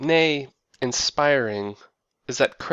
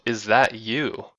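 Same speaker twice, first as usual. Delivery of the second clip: lovey-dovey sing-song; slower than usual. Retold or imitated. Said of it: "lovey-dovey sing-song".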